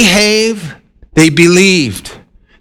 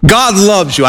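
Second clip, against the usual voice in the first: lightly imitating a preacher, the repeat lifted up in pitch; a hint of Billy Graham pressing the point home; Billy Graham imitation. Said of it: "my best imitation of Billy Graham. It's terrible".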